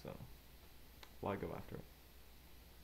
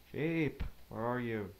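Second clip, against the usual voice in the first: calling out; 5 dB louder, slower than usual. Real, not acted. Player calling out loudly for lost sheep. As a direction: shout across the field for the sheep.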